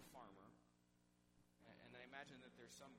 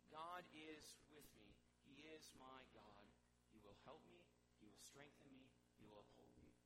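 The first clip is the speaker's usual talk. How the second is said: quiet affirmation; 3 semitones lower, 5 dB quieter than usual. Shown as a demonstration. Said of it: "are you saying those things".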